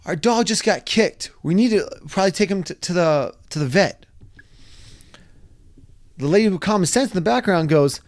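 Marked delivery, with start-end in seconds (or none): 0.0-4.1 yell. Retold or imitated. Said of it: "My wife yells to me".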